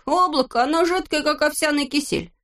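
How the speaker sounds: high teasing reproach. A narrator's reading. Neznaika chiding Vorchun, high voice. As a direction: needle the grumbler.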